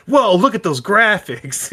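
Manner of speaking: put-on high, laughing awestruck kid; Zelda ad kid. Cohost imitates the kid from the Zelda commercial, awestruck. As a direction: gasp it out like an amazed kid in an ad. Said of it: "you sound like the kid from the Zelda commercial".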